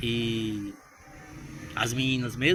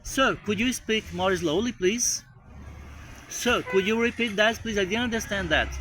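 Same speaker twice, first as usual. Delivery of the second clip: slow, careful English request; polite slow request; 6 semitones higher, slower than usual. Shown as a demonstration. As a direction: ask the caller politely to slow down. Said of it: "pedir a pessoa pra falar mais devagar".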